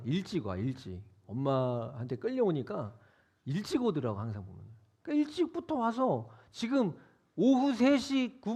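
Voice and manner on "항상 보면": normal talking voice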